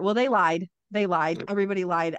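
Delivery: lied repeated with bitter weight; still-mad repetition of lied; stress on lied. Real, not acted. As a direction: hammer they and everybody, lied. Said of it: "I'm still mad about it".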